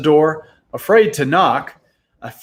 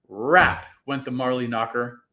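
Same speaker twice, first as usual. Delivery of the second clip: ordinary delivery, nothing marked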